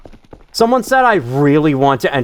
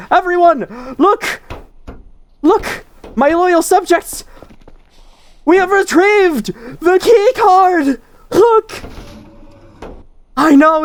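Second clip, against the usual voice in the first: much higher, grand royal proclamation; warm regal boom. Pretend. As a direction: address the loyal subjects like a king. Addresses loyal subjects as a king.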